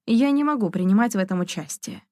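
ordinary delivery, nothing marked

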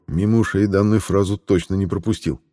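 ordinary delivery, nothing marked

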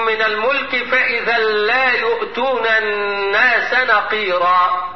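slow measured tajweed recital; Quran recitation. Shown as a demonstration. Teacher reciting the verse slowly to the class.

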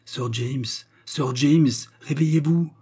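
a call building to a high, loud shout. A narrator's reading. George calls James through the hatch, shouting. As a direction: holler to rouse a sleeper. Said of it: "criait George par l'écoutille".

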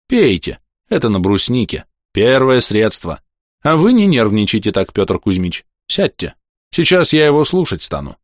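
a hint of a kindly fretting old mayor; old man voice. Старик-градоначальник говорит с больным. (лёгкий голос суетливого старика)

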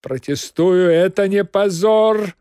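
loud high cat yell. Acted. Cat defending Margarita, loud yelling protest. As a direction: bawl your protest. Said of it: "орал кот".

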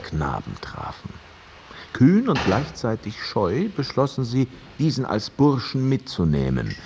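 put-on story told like an old grandfather, unhurried; storytelling in the lightly voiced manner of an old grandfather; grandfatherly storytelling. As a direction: spin the old tale for him as a grandpa would. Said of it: "erzähle wie ein alter Großvater".

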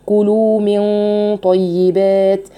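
slow طيبات with heavy ghunna; heavy nasal ghunna demo. Shown as a demonstration. Teacher shows students the heavy ghunna. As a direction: linger on the hidden nun before طيبات. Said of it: "شوفوا هنا الغنة بقى يا أخوات مفخمة إزاي".

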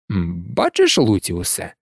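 low, mildly amused composure; calm, unruffled. A narrator's reading. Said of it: "незворушно усміхнувся Дамблдор". (незворушно, низьким спокійним голосом)

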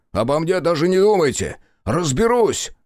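straining father calling out; urgent call. Acted. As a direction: push him to go, fast. Father urging Crow away.

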